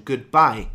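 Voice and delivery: goodbye said loud and clear; stressed goodbye. Shown as a demonstration. Teacher saying goodbye as a contraction, stressed. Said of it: "as a contraction".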